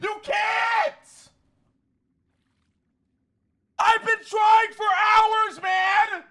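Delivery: exasperated. Real, not acted. Streamer demands answers from chat.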